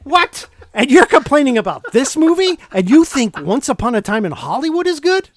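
loud, high, disbelieving What; incredulous outburst. Real, not acted. Teasing his co-host over his movie taste, loud incredulous protest. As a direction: blast him with playful outrage. Mock outrage at friend's taste.

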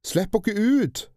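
high, loud, slow demand; shouting. A narrator's reading. Albert shouting at the kidnappers from his cage. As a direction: yell while banging the bars. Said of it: "ropte Albert og hamret i gitteret".

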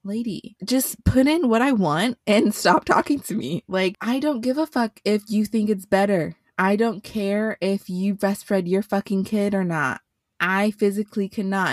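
fed up, tell her off; retold telling-off. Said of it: "And I'm like".

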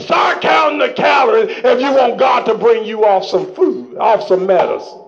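rhythmic repeated exhortation; call-and-response preaching. Acted. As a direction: hammer each repetition home.

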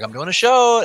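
half-playful yell, insisting it's a show; retold yell at coworkers. Telling coworkers about his show, mild mock yell. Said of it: "like, yelling and laughing".

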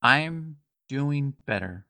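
slow and sincere; sincere, slow reply. Acted. Guiche answering the bard kindly, slow and sincere. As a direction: say it slowly, with a sincere smile. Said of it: "a completely sincere smile".

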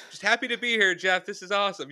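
putting on a cheerful front; Jake. Retold or imitated. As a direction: strain to sound upbeat while struggling. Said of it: "trying to keep a positive face".

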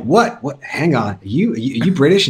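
acting out puzzled disbelief, pitch jumping up; mock surprise. Casting people hearing the actor's real accent, imitated surprise. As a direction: play someone caught off guard, voice rising on the question.

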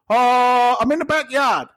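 high, drawn-out mock excuse; Jimmy. Storyteller mimics his lying floor guy, high mock voice. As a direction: pitch it way up, stretching the opening word.

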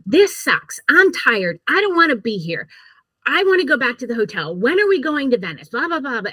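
mock-complain like a sulky son; whiny teen. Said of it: "Ethan was like".

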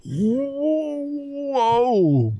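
high, breathy gasp of wonder; amazed whoa. Retold or imitated. Believer amazed at himself in the mirror, high whoa. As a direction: gasp at your own reflection. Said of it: "look at that mirror and go".

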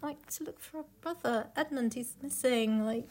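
duh, obviously; exasperated. Acted. Exasperated reply.

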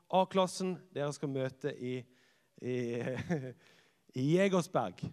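teacher shouting instructions; teacher calling out. Retold or imitated. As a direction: call the class to order. Teacher calls to A-class.

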